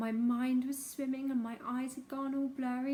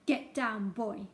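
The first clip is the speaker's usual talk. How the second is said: ordered; 3 semitones lower, 3 dB louder, slower than usual. Acted. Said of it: "Mister Coombs ordered".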